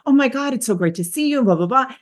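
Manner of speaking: fast, high, breathless gushing greeting; fast choppy speech. Shown as a demonstration. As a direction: rattle it off quick and staccato like an over-eager hello. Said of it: "you can feel this rate of speech".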